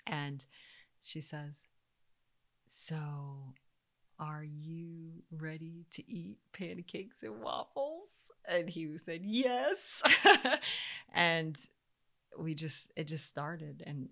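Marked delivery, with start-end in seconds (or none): 2.7-8.3 put-on slow, soft coaxing to a sick child; mother coaxing her son to eat, slow and tender; gentle coaxing mom. 9.2-10.0 put-on high, louder eager child's yes; eager little kid. Recovered son answers eagerly. 10.1-11.1 high, loud burst of laughter; mother laughing loudly at her son's eager answer. Real, not acted. Laughs after quoting son.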